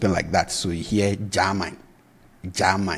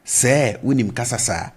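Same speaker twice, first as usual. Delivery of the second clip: a hint of surprise on Sir, unim kasa; mock surprise; 3 semitones higher, 3 dB louder than usual. Shown as a demonstration. Teacher models a surprised reaction in Twi. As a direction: ask it as if just finding out. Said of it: "this is how you ask".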